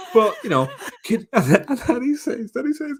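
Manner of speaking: pitched high, laughing through it; real laughter lifting the pitch high. Real, not acted. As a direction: giggle through the retelling. Retelling funny line, laughing.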